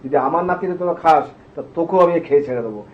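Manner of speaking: put-on old grandmother defying Kali with a loud threat; fierce threat. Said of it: "বড় বড় চোখ করে লাল ঢেকে ঢেকে চোখ করে তাকিয়ে বলছে".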